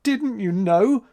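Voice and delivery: high, slow tearful plea; sobbing. A narrator's reading. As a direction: plead through tears. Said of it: "sobbed April".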